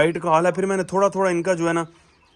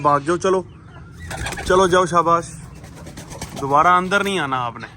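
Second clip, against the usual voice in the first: shooing call. Real, not acted. Shooing hens out.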